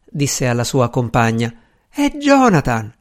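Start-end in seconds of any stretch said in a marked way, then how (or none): 1.9-2.9 high, drawn-out amazed cry of the name; amazed exclamation. A narrator's reading. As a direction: announce an astonishing sight, pitched high and slow. Wife announces husband to companion. (esclamazione stupita, acuta)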